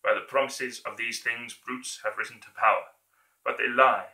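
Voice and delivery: building to a rousing shout; dictator speech. Acted. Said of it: "that version of his speech".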